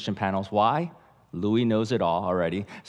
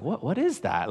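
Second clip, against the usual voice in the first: playing dumb; 6 semitones higher than usual. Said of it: "playing dumb".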